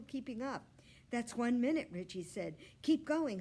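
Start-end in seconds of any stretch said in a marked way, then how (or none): 1.1-1.9 put-on higher, louder boy's call; excited announcement. Richie timing the hamster, excited call. 2.8-3.4 higher, louder encouragement; cheering. Acted. Richie urging Humphrey on, excited.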